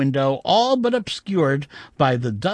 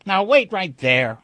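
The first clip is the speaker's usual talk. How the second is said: louder sharp objection; snapped; 3 semitones higher, 5 dB louder than usual. Acted. Narrator stopping the shopkeeper's patter with a sharp snap. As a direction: cut him off sharply. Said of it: "I snapped".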